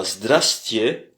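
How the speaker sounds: Здрасте said slowly as two syllables, ZDRAS-te; short Здрасте. Shown as a demonstration. Teacher demonstrating the shortened Здрасте slowly. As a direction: clip it down to Здрасте, drawn out. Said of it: "une façon un peu raccourcie".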